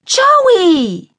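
put-on high, loud girlish drunk shout; drunken scream. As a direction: scream the name across the party. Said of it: "Samantha screamed".

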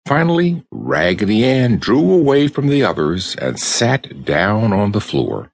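usual speaking voice

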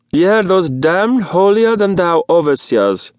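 shouted. A narrator's reading. Zorn on the couch shouting agreement, loud. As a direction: bellow it from the couch. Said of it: "shouted the sole Zorn".

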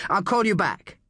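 high-pitched urgent encouragement; urgent reassurance. A narrator's reading. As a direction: urge him to hold on. Agent rallies a wounded caller.

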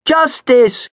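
high, loud bleating chorus; bleated cry. A narrator's reading. The flock echoes Othello, bleating loudly. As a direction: bleat it out together, sheep-like. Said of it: "bleated the other sheep".

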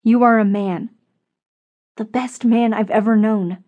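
firm, impassioned insistence; stern rebuke. Acted. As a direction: lay down the law, phrase by phrase. Susan sternly rebukes Frank after insult.

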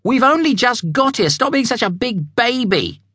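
high stern mother; scolding mother. Acted. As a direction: scold the whiny child. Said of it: "she scolded".

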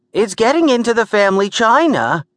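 high-pitched, panicked woman's wail; alarmed cry. A narrator's reading. Gert watching the creature reach the family china, alarmed cry. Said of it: "Gert cried".

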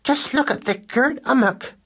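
put-on high squeaky mouse voice in a broad West Country accent. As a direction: gawp at it like a West Country farm girl. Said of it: "You could hear it in her speech".

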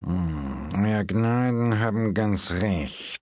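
slow, fawning fortune-teller voice; hum, then flatter her grace slowly; unctuous palmist. Acted. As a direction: agree slowly, like a smooth courtier. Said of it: "sagte Herr Podgers".

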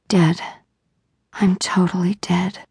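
hushed, breathless whisper of defeat. A narrator's reading. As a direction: barely whisper it, giving up. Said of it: "All Eva could whisper was".

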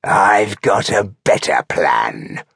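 slow orc snarl. Acted. Chieftain facing down the rebellious trooper, slow snarl. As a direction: snarl it slowly as a threat. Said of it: "he snarled".

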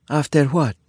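put-on Italian-accented English question; heavy Italian accent. A narrator's reading. Isabella asks the sheriff about marriage, Italian accent. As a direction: ask it with a thick Italian accent. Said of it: "Isabella asked in her heavy Italian accent".

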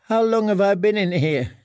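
high, feeble, frightened question; thin and weak. A narrator's reading. Prisoner who has lost track of time, thin and weak. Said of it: "his voice thin and weak".

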